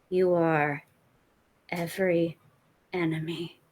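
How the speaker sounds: low, slow, menacing recorded threat; taunting villain voice; menacing villain message. Acted. In-character villain message to Sonny.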